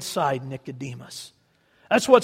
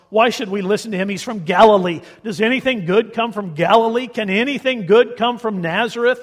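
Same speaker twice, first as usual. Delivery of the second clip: louder sneering council members; scornful response; 3 dB louder than usual. Acted. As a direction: scoff at the man from Galilee. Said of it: "don't you love their response".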